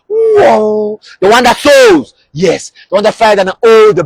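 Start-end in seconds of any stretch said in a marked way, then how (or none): 0.1-2.1 soar with the words; preacher thrilled by the soaring eagle; excited. Real, not acted.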